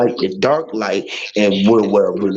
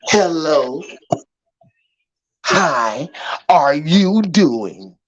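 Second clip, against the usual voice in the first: mock fake greeting; 4 semitones higher, much slower than usual. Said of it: "That's what they be telling us".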